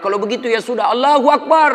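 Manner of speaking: put-on high, loud laughing yell of the young man from the back; mock shout. Young man at the back yells to the stuck imam, laughing mock shout. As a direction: belt out "Allahu Akbar" in a comic mock shout. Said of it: "Tiba-tiba berteriak anak muda".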